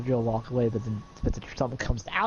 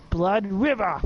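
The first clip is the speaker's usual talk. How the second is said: attack callout; 5 semitones higher, slower than usual. Acted. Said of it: "let's see if I can stop".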